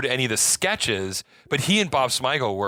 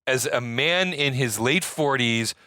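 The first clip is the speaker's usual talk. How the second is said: slurring a little, tipsy. Real, not acted. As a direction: talk like you've had a few. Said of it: "I'm very drunk right now".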